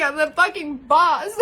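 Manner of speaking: proud, with a laugh in it; laughing boast. Real, not acted. Vlogger reads her cup to viewers, laughing proudly. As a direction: brag it with a grin.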